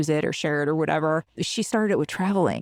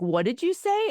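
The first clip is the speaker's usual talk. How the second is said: mock confused; 12 semitones higher than usual. Confused listeners asking back.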